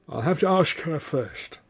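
hint of a bruised drunk stalling; lightly voiced battered Mike. A narrator's reading. Beaten friend stalling Arthur's question, slow and grudging.

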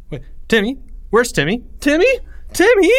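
high calls building to a shout; growing panic. A narrator's reading. Leo realising Timmy is missing, panicked calling.

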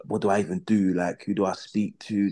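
numb after being released; stunned quiet. Retold or imitated. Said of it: "I remember just sitting there like".

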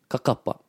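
"kakapa" stressed on the middle ka; stress on second syllable. Shown as a demonstration. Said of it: "Other words like this".

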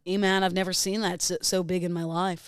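lightly parroted dude voice; mimicked voice. Co-host mimics everything host does, put-on voice. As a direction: copy his easygoing character voice. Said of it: "Full on mimic everything you do".

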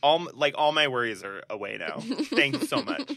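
mock grateful.

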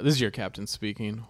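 calm pilot announcement over the intercom; airline captain voice. Acted. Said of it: "you're the pilot announcing".

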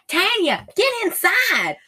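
high, loud urgent call, slow on get inside; mock urgent call. Leslie calling Tanya inside over the walkie-talkie, high urgent call. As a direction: call her in like a panicked friend. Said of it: "she's like".

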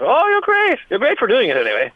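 high, gushing, over-sweet praise; mock gushing praise. Imitating family gushing over his gig, high and sugary. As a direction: lay the fake enthusiasm on thick.

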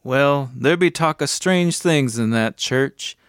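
lightly voiced cabbie, slow and ominous at first; concerned cab driver. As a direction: warn of strange things, with mild concern. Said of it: "with genuine concern in his voice".

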